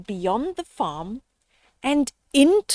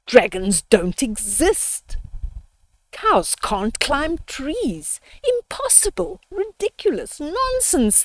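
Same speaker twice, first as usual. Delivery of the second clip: high, dismissive scoff; scoffing sisters; 3 semitones higher than usual. Acted. Sisters scoffing at Tina's dragon story, high and dismissive. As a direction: wave it all away as nonsense. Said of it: "they said".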